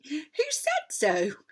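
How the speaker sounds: a hint of an indignant girl; Lucy. A narrator's reading. Lucy challenging Edmund, lightly voiced.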